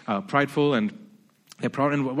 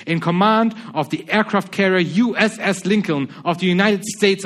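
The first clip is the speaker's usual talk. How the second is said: louder, higher commanding navy captain; pompous captain; 3 semitones higher, 5 dB louder than usual. Retold or imitated. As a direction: bark orders like a puffed-up commander. American captain issuing threatening orders.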